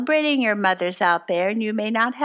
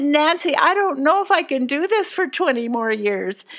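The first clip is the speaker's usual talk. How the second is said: higher and louder, overwhelmed; pleading new mom; 4 semitones higher, 3 dB louder than usual. Retold or imitated. Crying baby's mother begging her friend Nancy, higher and louder in distress. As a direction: beg your friend for rescue.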